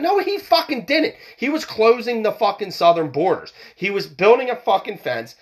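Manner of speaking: heated and high-pitched, firing back at a claim; real rising frustration, defending Trump hotly; worked-up rant, voice pitched high; hyped-up anger. Real, not acted. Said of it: "I'm getting a little hyped up".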